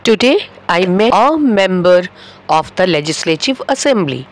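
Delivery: a member said slowly with a plain a; slow model sentence. Shown as a demonstration. Teacher modelling the long-form sentence slowly. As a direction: stretch each word of the sentence. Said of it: "তাহলে বলবো".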